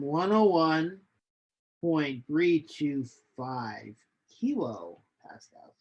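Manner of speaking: losing her voice, rough and strained; hoarse, voice giving out. Real, not acted. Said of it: "Losing my voice".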